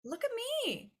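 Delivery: high, chirpy self-congratulating voice; smug prepared self. Retold or imitated. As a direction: brag to yourself in a bright high squeal. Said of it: "We are like".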